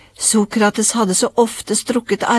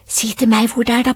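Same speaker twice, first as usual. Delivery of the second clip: lightly voiced little girl asking; a touch of a child's plea; mildly eager child's request; pleading child; 3 semitones higher than usual. A narrator's reading. Child begging father to tell.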